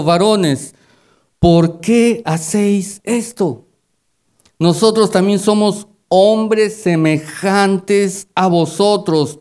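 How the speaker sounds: solemn Bible reading; scripture reading. Acted. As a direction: read the passage with solemn weight.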